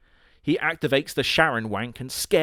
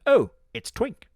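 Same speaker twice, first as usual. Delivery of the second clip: much higher, squeaky and chirpy; 12 semitones higher, 4 dB louder than usual. Acted. Harambe-chan spotting a friend, in a squeaky high voice. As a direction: squeak it out in a cartoon girl voice. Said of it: "Harambe-chan is like".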